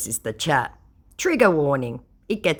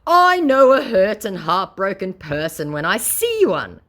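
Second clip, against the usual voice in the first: mock scammer; 6 semitones higher, 6 dB louder than usual. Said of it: "said my moron".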